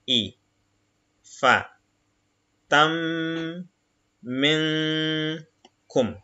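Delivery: each Arabic syllable said apart, slowly; syllable reading. Shown as a demonstration. Teacher reading Arabic syllables to the class, slow and separated. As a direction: spell the word out syllable by syllable. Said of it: "Donc, ta".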